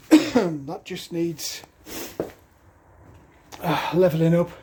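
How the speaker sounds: breathless after hammering; winded, catching breath. Real, not acted. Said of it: "If I sound like I'm out of breath".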